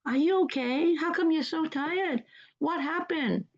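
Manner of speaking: concerned, tender asking; caring concern. Shown as a demonstration. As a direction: check on them with real concern. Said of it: "showing your care and concern".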